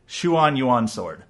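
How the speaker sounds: Shuan Yuan Sword said slowly, each syllable drawn out, shuan falling; careful pronunciation. Retold or imitated. Reporting the publisher's pronunciation of Shuan Yuan Sword, slow and deliberate. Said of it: "They pronounce it".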